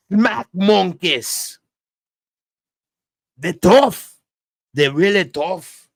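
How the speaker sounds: lightly put-on, punchy announcer impression. Comedian mimics a Netflix documentary promo about monkeys, in a put-on voice. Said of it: "trying to stay liquidated for these impressions".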